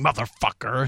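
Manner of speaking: lightly imitated Austrian action star; Arnold Schwarzenegger. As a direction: slip lightly into an Austrian tough-guy voice. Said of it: "Arnold Schwarzenegger saying".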